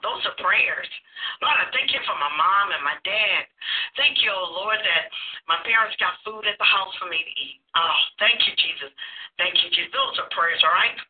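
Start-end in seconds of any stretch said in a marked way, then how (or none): 1.4-9.9 a mild prayerful murmur, gently thankful; sample prayer. Shown as a demonstration. Demonstrating a prayer.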